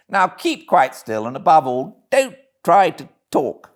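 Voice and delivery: a hint of a concerned gentleman; kindly gentleman. Gentleman voiced in story.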